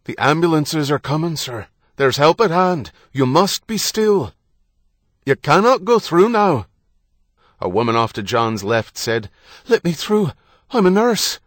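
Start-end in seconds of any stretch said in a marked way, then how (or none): 0.1-6.7 raised, higher voice over the commotion; firm, urgent command. A narrator's reading. Policeman restraining frantic husband in crowd, urgently firm. 9.7-11.4 high, loud woman's voice; urgent calling out. A narrator's reading. Nurse to the crowd at blast scene, calling urgently.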